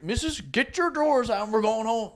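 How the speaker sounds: mock hurried call. Retold husband hurrying his wife.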